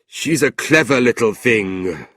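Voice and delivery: lightly voiced leering gentleman. A narrator's reading.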